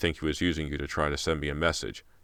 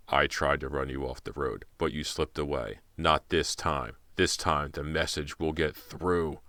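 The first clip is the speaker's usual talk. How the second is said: low menacing voice. Acted. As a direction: drag out each word as a threat. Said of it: "the man said in a low voice".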